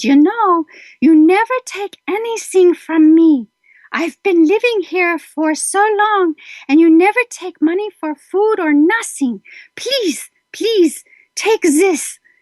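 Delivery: put-on elderly woman's slight German accent, pitched high. Retelling an elderly mother offering a check, imitating her German accent. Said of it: "in her little German accent".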